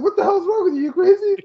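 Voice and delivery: high, laughing disbelief; laughing mock outburst. Imitating a baffled Bruce while laughing. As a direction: laugh through a mock rant. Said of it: "he's like".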